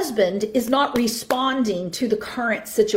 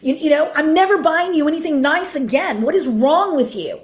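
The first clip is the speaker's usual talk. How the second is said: mock father yelling; 5 semitones higher than usual. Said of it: "begins to yell at him".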